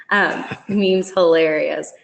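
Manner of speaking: leftover laugh, words drawn out slowly; still laughing. Real, not acted. Presenter resuming the talk on memes, still laughing. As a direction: recover from a real laughing fit. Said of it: "Sorry, I'm still laughing".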